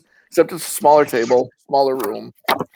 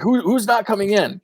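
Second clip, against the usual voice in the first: insistent doorman; 8 semitones higher than usual. Acted. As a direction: hold the line, no six allowed. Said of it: "he's like".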